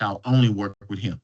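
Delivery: mild awe, stress only; won-over vow. Retold or imitated. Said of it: "they're like".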